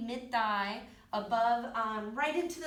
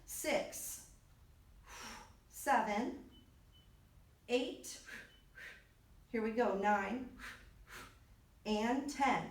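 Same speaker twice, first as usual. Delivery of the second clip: doing sit-ups; slower than usual. Real, not acted. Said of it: "My abs are on fire".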